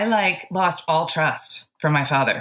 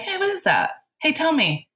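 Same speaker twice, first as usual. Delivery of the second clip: much higher, inquisitive acted question; curious questioning; 10 semitones higher than usual. Questioning a gremlin hidden in the closet, high and curious. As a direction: lift the voice high, as if coaxing out an answer.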